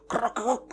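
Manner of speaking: high-pitched creaking noise; imitated creaking. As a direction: voice the creak of old bones. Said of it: "bunyi kayak gitu". (tiruan bunyi berderak)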